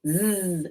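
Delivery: Z as a long buzzing zzz, not the letter name; isolated final sound. Shown as a demonstration. Teacher isolates the end of buzz, Z as zzz. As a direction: hold Z as a pure z sound. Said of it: "is the final sound in buzz".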